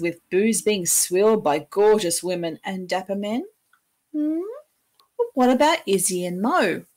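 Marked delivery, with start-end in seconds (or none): 4.1-6.8 playful mock question from the audience; mock puzzled listener. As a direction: play the curious listener cutting in. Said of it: "I hear you ask".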